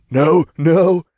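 high, loud, through held-in snickers; stifling laughter. A narrator's reading. Imp denies he finds it funny, stifling laughter. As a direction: fight not to lose it. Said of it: "he mumbled".

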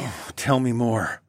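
slow, mild plea; begging. Acted. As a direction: beg slowly, drawing it out. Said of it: "I begged Jessamine".

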